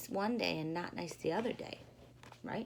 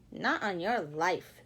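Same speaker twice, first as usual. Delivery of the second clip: 1 curt refusal; 5 semitones lower, slower than usual. Acted. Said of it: "said Charlie".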